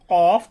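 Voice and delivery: "কফ" made with tongue root on upper palate; demonstrated deep articulation. Shown as a demonstration. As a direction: show "কফ" from the very back of the tongue. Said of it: "আমি যেরকম উচ্চারণ করি". (তালুতে জিহ্বার গোড়া ঠেকিয়ে "কফ")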